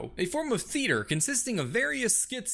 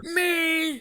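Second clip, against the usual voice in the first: surprised plant; 8 semitones higher, 3 dB louder than usual. Acted. Audience member called up.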